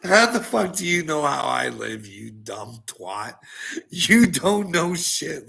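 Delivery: angry outburst. Real, not acted.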